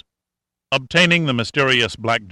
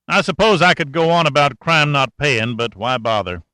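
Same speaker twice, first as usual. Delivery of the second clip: lightly raised folksy sergeant voice; a hint of a wry country boy; country mechanic; 4 semitones higher, 3 dB louder than usual. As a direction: talk like a sly old country mechanic. Cashman voice held.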